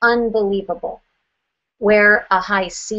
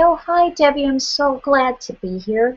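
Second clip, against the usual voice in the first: higher, sweet, gushing client voice; playing a gushing high S; 5 semitones higher than usual. Agent gushing to homeowner Debbie, higher and sweet. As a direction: lay on the syrupy friendliness. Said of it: "let's pretend you're a high S".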